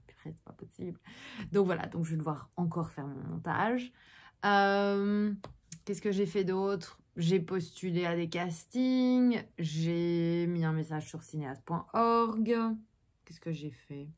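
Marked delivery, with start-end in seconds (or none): 0.1-1.0 muttered under the breath, much softer; dismayed mutter. Retold or imitated. Retelling her reaction to husband's verdict, a soft dismayed mutter. 13.2-14.1 thinking aloud in a whisper; whispered to herself. Real, not acted. Vlogger trying to recall her day, whispering to herself. Wondering to herself what she did.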